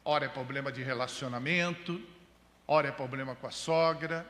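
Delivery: enumerar problemas em cadência de pregador; pregação enfática. Real, not acted. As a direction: ladainha de problemas, com acentos fortes. (pregação enfática em ritmo de lista)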